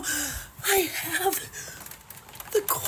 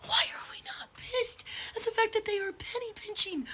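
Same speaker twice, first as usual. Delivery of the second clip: tearful whisper; 3 semitones higher, 4 dB quieter than usual. Real, not acted. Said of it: "I may be crying right now".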